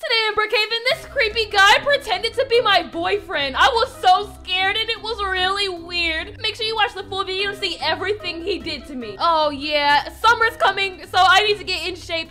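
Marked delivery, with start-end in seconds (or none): 0.0-7.6 video teaser intro. Acted.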